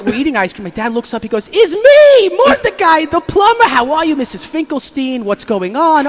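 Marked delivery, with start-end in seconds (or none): 1.5-6.1 much higher, louder hearty bluff; dad playing the plumber. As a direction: greet her with fake cheer.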